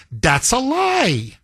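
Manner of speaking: That's a lie, drawn out slowly word by word; slow emphatic denial. Real, not acted. Host rebutting, slowed for effect.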